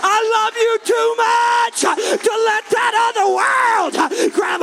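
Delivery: loud, high, sung-out preaching cadence; full-throated gospel preaching; preaching at full force. Acted. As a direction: preach it with rising fervor, half chanting. Preaching climax.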